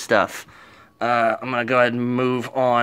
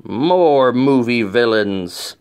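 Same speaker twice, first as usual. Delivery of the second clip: slow, drawn-out villain announcement; menacing cartoon villain tease; sneering panto villain; 4 dB louder, much slower than usual. Teasing the next video's theme.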